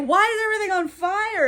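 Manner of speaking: a mock panicked cry about the fire; panicked question. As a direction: ask it in sudden alarm.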